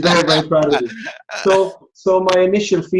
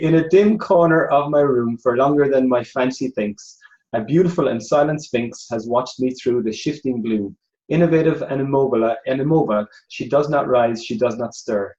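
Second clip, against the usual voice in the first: natural Irish accent reading verse, easing lower; 3 semitones lower than usual. Shown as a demonstration. Irish judge showing the contestants how it's done, Irish accent. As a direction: read the poem in an unforced Irish accent. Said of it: "this is my Irish accent".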